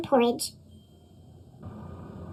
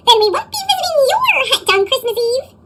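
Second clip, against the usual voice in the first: high, screechy frightened troll; little troll fleeing the big cats, high and screechy; screeching troll; 8 semitones higher than usual. Acted. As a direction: blurt it out high in a panic. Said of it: "he screeched".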